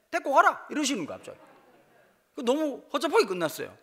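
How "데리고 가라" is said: sudden loud, high mock command; retold father-in-law's blunt order. Father-in-law abruptly tells the suitor to take her, loud. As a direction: bark it out like a gruff father-in-law giving in. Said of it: "장인이 나보고 뭐랬냐니까".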